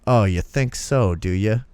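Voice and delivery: mock fatherly threat; challenging dad. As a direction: draw it out as a dad's challenge. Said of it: "I'll never forget how he said this".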